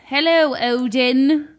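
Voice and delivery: light mock Nordic accent; put-on accent. Cohost greeting Odin while introducing Nordic women, mock Nordic accent. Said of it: "I was too distracted by the accent".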